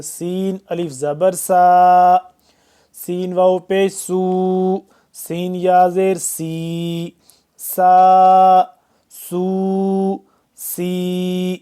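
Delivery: سا with a sharp hissing س; whistled s. Shown as a demonstration. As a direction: model سا سو سی with a whistling s. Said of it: "سیٹی کی آواز نکال کے".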